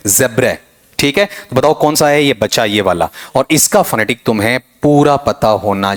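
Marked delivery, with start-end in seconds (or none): 0.1-0.6 "ज़ेब्रे" as ZEB-reh; corrected pronunciation. Shown as a demonstration. Teacher repeating the corrected word, corrected pronunciation. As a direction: end "ज़ेब्रे" in reh rather than raa. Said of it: "यहां पर ये बनेगा रे".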